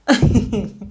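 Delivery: short, involuntary laugh; real laugh. Real, not acted. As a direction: let a little laugh slip out. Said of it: "I'm sorry that I'm laughing".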